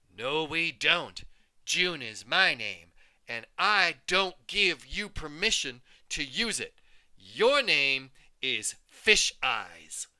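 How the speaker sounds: loud, slow, growling taunt; growly bully. Acted. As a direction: lay down the law like a schoolyard bully. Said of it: "She had a deep, growly voice".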